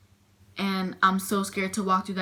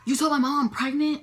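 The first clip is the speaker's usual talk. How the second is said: higher-pitched incredulous question; retold disbelief; 7 semitones higher, 3 dB louder than usual. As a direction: replay a stunned, accusing question. Retold shocked question to doctor.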